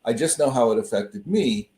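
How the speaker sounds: normal talking voice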